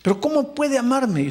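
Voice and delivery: doubtful plea. Acted. Voicing the doubter's objection.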